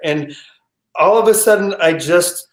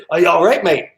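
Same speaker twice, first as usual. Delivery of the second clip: second stab at a South African skipper; bad South African accent; 3 dB louder, faster than usual. Captain checking on the frozen passenger, attempted South African accent. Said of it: "can't do a South African accent".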